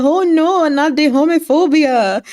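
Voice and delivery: high, loud, hammed-up oh no; mock dismay. Recapping the drama, she voices a character's mock horror. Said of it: "he said".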